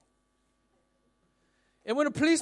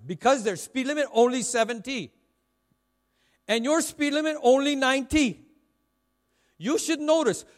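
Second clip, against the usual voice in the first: lecturing policeman; 3 semitones higher, 5 dB louder than usual. Retold or imitated.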